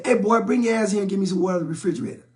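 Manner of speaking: lightly voiced dad barking quick orders; a hint of a stern father calling his son over; dad's gruff order. Dad on the couch ordering his son to bring water, gruffly. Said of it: "My dad would say".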